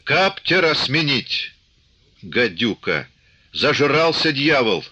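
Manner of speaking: high, drawn-out angry calls; indignant outcries. A narrator's reading. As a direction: take up the angry cry from the crowd. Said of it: "подхватили ближние".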